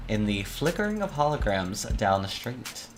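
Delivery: measured noir visual-novel narration; story narration. A narrator's reading. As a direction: read it like a crime-thriller narrator, lingering on phrases. Reads the visual novel's narration aloud.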